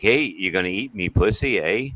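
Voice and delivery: lightly voiced Canadian woman, tacking eh on the end; Canadian accent. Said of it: "and they're like".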